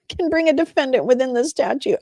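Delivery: high-pitched, stifled laughter in the voice; laughing. Real, not acted. Streamer reading a statute aloud, laughing. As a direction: read it while cracking up. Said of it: "I'm laughing".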